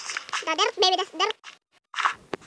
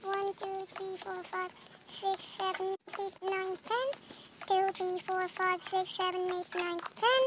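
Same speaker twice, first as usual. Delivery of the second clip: hushed counting while building; quiet counting; 12 dB quieter, slower than usual. Real, not acted. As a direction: softly count under the breath. Counting softly under breath.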